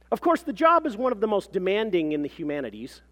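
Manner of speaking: high, loud, self-important claim; pompous professional. A narrator's reading. Mother describes her research to the clerk, pompous and assured. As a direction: proclaim it like an impressive credential.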